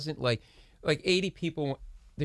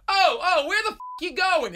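much higher, louder mock yell; imitated yell; 5 dB louder than usual. Carpenter yelling at Steven over a forgotten prop, loud mock yell. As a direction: bellow it like an angry carpenter. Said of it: "he's yelling at Steven".

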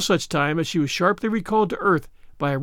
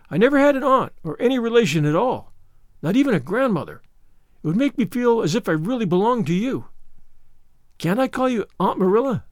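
put-on higher, gently pleading child; wistful; 5 semitones higher than usual. Orphan Anne asks Marilla to be her aunt, wistful. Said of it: "said Anne wistfully".

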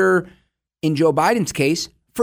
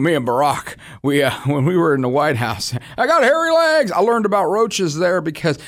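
mock Biden impression. Host impersonating Biden at a barbecue, rambling mock voice. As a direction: ramble like a confused statesman.

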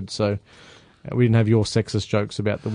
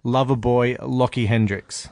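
hyped ring announcer intro; slower than usual. Acted. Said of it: "Now that's a good introduction".

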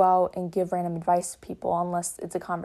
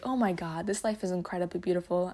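amazed. Retold or imitated. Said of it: "I'll see a slug on the road".

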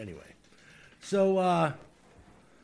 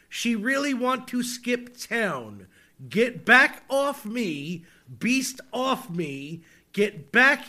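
dramatic lyric reading; slower than usual. Shown as a demonstration. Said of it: "read them aloud to you".

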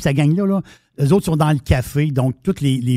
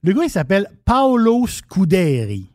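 Italian accent; 3 semitones higher than usual. Shown as a demonstration. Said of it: "C'est mon accent italien".

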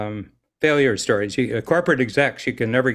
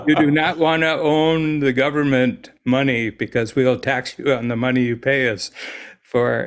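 put-on Indian accent. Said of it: "distinctly Indian voice and said".

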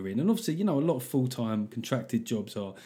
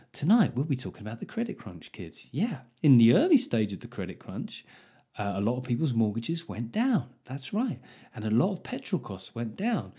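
bedtime story. Pretend. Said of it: "telling them bedtime stories about, um, financial crashes".

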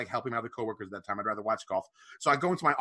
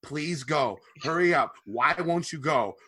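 pleading with himself; 2 semitones higher, 3 dB louder than usual. Retold or imitated. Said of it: "like I was talking to my Willie".

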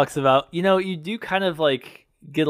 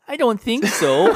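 put-on raised, slow old woman's reply; 7 semitones higher, slower than usual. Old woman turning Michael away, slow and high. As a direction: answer like a puzzled old lady. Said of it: "she's like".

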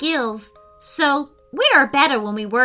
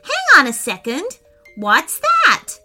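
higher, louder call of alarm; startled shout; 6 semitones higher, 5 dB louder than usual. A narrator's reading. Declan spots a monster wandering, startled shout. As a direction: call out sharply, pitch raised. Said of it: "shouted Declan".

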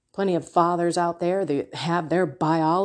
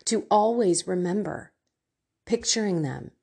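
heartfelt prayer. Acted. Leads a prayer.

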